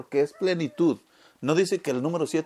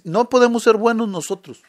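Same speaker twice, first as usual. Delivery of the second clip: louder, higher, leaning on ser; emphatic preaching; 5 semitones higher, 7 dB louder than usual. Real, not acted. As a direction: predica con fuerza: no podemos SER buenos. Preacher stresses a key point. (predicación enfática, más fuerte y aguda)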